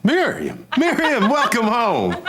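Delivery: loud, high, laughing welcome; thrilled, soaring welcome home; delighted greeting. Acted. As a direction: cry out the name in joyful surprise. Delighted surprise at her phone call.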